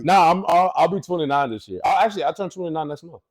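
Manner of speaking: high, loud laughing denial; loud laughing correction; laughing protest. Real, not acted.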